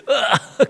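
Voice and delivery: high, stifled yelp of pain; imitating a cry from a needle jab; re-enacted "aagh" of pain.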